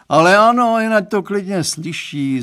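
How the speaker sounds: loud, high-pitched outburst; exclaiming. A narrator's reading. Father brushing off daughter's plea, exclaiming loudly. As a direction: cry it out, overruling the objection. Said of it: "zvolal pan Stránský".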